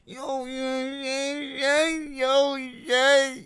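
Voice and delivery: put-on high New York street accent. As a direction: call out like a New York hustler. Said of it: "my New York accent".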